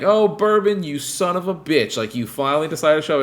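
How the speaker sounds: hammed-up taunt at an old debtor; mock angry greeting. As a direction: locals jeering at Bourbon who owes them money, mock angry. Retold angry locals greeting Bourbon.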